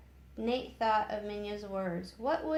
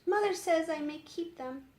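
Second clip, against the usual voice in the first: put-on young girl; 6 semitones higher, 4 dB louder than usual. A narrator's reading. Elizabeth voiced.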